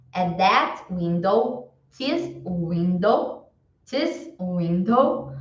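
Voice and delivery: slow, leaning on that and this; teacher contrasting that window and this window; stressed demonstratives. Shown as a demonstration. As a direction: hit that and this, slowly. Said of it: "demonstrating this vs that".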